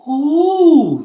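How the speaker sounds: high breathy gasp of fear; a shaky little ooh of dread; timid ladybird shrinking back; frightened ladybird. Acted. Ladybird frightened by cloud men.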